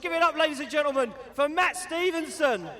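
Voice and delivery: hyped arena announcer; big ringside introduction; announcer intro. Real, not acted.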